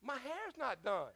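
slow, laughing imitation of the wife; laughing quote. Wife refusing to leave, quoted through laughter. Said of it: "she goes".

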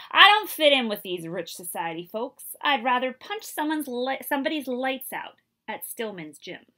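frustrated outburst. Acted. Althea throws racket, frustrated.

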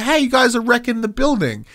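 exasperated outburst; emotional version. Shown as a demonstration. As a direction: show how it should have landed. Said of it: "did not deliver any of that emotion".

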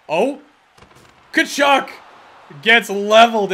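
high, loud play-by-play cry; excited call. Real, not acted. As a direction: call the hit with surprise. Big hit called out.

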